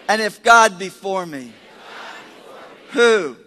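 bold, measured declarations with pauses between phrases; preaching declaration. Real, not acted. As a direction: proclaim each phrase for the congregation to follow. Leads congregation's confession.

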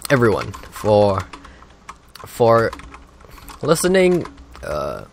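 mock a president giving a speech; Obama impression. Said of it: "that wasn't a good impression".

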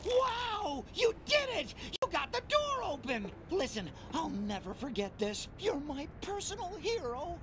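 high, thrilled little doctor; excited cheer. Acted. Doctor cheers the player for opening the door. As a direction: cheer like they saved your life.

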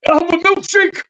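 very high, gruff Macho voice; high raspy Randy Savage voice; Macho Man impression. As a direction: order food as Macho Man. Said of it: "he'd be like".

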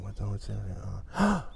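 low, soft, slow confused aside; puzzled student thought. Retold or imitated. Teacher voices a confused student's thought. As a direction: mutter it like a baffled student. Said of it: "you think".

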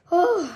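short exhale from spicy heat; burning exhale. Real, not acted. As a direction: blow out the burn. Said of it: "my mouth is burning from the Takis".

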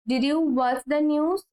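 slow, clear teacher's model; slow model sentence. Shown as a demonstration. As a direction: say it very slowly and clearly for learners. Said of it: "teacher models slow English". (ধীরে স্পষ্ট করে বলা)

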